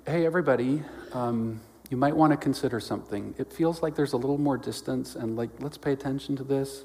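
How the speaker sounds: gentle, hesitant mild suggestion; softened, approachable. Acted. Preacher rewording Jesus's warning to the church, softened and hesitant. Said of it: "I'd wanna sort of soften it a little bit".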